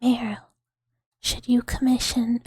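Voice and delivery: mock curse. Streamer warning Meryl against a commission, mock proclamation. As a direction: announce a mock-solemn warning.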